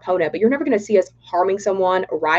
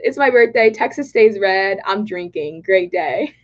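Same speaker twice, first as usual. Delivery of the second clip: Texas country accent. Shown as a demonstration. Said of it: "the country accent".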